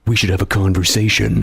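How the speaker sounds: chatting in a cartoon villain's voice; playful low-falsetto villain. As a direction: keep it down in the throat. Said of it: "We should talk like this".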